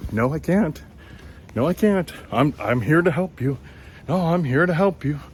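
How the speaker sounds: high, insistent tout voice; mock stubborn tout. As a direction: refuse to budge like a pushy helper. Tout refusing to leave.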